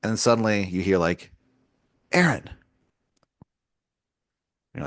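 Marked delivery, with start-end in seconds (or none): 2.1-2.5 a high call from the sky; distant voice calling. Pretend. Constellation calling the stargazer, high and drawn out. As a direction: call the name down from above.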